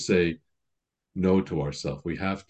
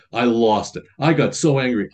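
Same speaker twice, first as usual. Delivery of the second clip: mild mock fury; mock exasperation; 2 semitones higher, 5 dB louder than usual. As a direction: act out losing your temper, half in jest. Voicing an angry penitent.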